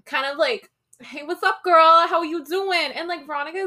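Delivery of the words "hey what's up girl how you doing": lightly voiced catcalling guys, pitched up. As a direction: imitate boys hitting on a girl. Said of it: "there's these boys in the corner".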